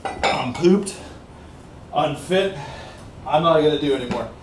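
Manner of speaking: worn-out sigh of a line; tired and breathless. Real, not acted. Vlogger giving up his set, tired and winded. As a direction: let the exhaustion sit in the voice. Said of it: "I'm losing my breath".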